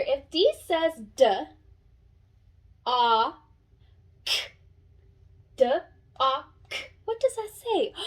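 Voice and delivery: sounds apart, then a delighted gasp at dock; sounding out. Shown as a demonstration. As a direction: sound it out, then cheer the word. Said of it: "Let's sound it out all together".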